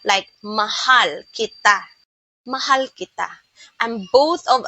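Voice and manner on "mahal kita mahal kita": mahal kita with every syllable weighted alike; even syllables. Shown as a demonstration. Teacher showing syllable timing to learners, evenly stressed mahal kita. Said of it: "all the syllables are pronounced in the same way".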